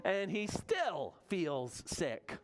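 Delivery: put-on reading to children. A narrator's reading. Reads refrain to children.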